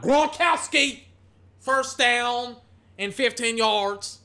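a high, loud, slow stretched yell of the name; announcer losing it over a touchdown-worthy catch; excited shout. Acted. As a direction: roar the catch like a stadium announcer. Calling the big catch.

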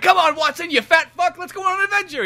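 put-on high, loud, eager boyish voice; rally your sidekick in a high voice; young Sherlock Holmes. Young adventurer urging his sidekick on, high and pushy. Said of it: "young Sherlock Holmes is like".

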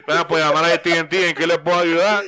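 laughing fake phone agent greeting; chirpy call center agent, laughing; customer service voice. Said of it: "En un call center".

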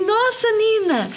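wowed mother, drawn out; amazed praise. Retold or imitated. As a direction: gush over the child's new rocket. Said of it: "E eu falei assim".

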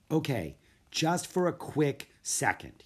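put-on boyish, a touch drowsy; young Jack giving in; sleepy boy. Jack gives in.

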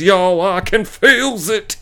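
very slow, high put-on eerie voice; spooky psychic. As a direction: draw it out like a mock medium. Spooky tease to viewers.

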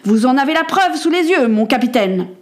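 spitting accusation, rising in pitch; scornful, vindicated accuser; Blackburn. Acted. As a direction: crow over the proof with contempt. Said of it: "cracha monsieur Blackburn".

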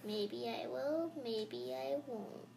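slow teasing taunt; sneering panto villain. Pretend. Teasing villain tease before cackle.

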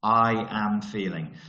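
slow but joined into one phrase, falling; slow recap. Shown as a demonstration. Coach repeating the affirmation template to note-takers, slow and connected. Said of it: "Take that down as a note".

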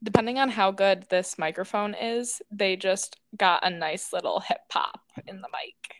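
talking with a retainer in; words shaped around a retainer; wearing a retainer. Real, not acted. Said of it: "I'm trying to enunciate because our dear sister Molly asked if I had my retainer in".

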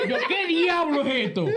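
startled. Retold or imitated. Startled awake by loud aguinaldo.

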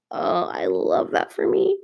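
deep, slow, dry ironic aside; mock yourself with a deadpan low drawl; ironic self-mockery. Real, not acted. Self-mocking remark after laughing.

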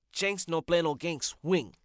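proud, loud wordplay on his name; loud name pun. Acted. Bragging to the host about his nickname, loud. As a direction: belt out the pun with swagger.

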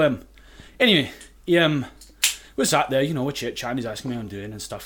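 put-on chatty anecdote in a convincing Scottish accent. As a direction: tell it casually as a Scot. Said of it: "I'm not even Scottish".

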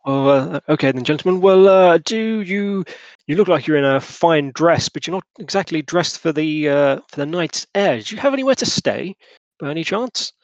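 courteous gentleman, pitched a little up; politely enquire, lilting up on the questions; lightly voiced committee head. Lusk asking strangers about lodging, lightly acted courtesy.

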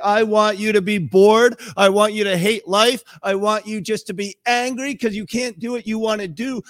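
mock complaint from a stern God; mock demanding God. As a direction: play the killjoy God, mockingly. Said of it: "It's not 'cause he's saying".

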